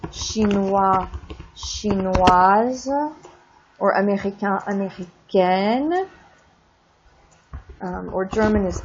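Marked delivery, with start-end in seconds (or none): none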